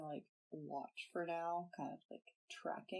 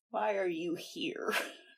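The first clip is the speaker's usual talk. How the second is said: put-on odd, weird elderly woman's voice; 10 dB louder than usual. Retelling how Daisy May reacts to Josh in the garden, imitating Mary's old lady voice. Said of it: "That's a really weird old lady voice".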